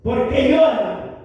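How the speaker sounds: solemn Jesus. Retold or imitated. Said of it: "Jesús le dijo".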